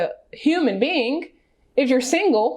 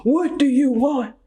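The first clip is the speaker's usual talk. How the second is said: Notebook guy impression; 4 semitones higher than usual. Laughing at herself, she does the Notebook guy's plea again. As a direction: ham up the old dude's desperate demand. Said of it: "Now I sound like old dude from, uh, The Notebook".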